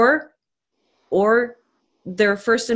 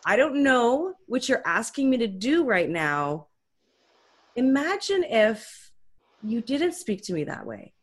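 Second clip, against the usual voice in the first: softer and calmer, steady and unhurried; 2 semitones higher, 5 dB quieter than usual. Shown as a demonstration. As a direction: talk the child down gently after a breath. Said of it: "you wanna say in a calm way".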